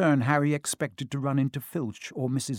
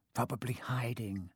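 muttered; 10 dB quieter than usual. A narrator's reading. Filch muttering, low, rough.

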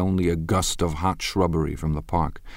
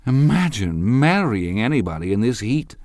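dismal cry; 6 semitones higher, 4 dB louder than usual. A narrator's reading. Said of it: "cried Jordan dismally".

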